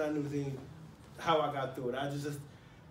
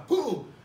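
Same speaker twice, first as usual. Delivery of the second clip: door boom; 5 semitones higher, 3 dB louder than usual. Retold or imitated. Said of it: "the door locking by".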